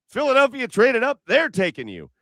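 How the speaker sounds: high, frantic agent breaking the news; freaking out. Retold or imitated. Agent tells his client Philly traded up, frantic and high. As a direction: blurt it out like a panicked agent. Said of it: "his agent starts freaking out".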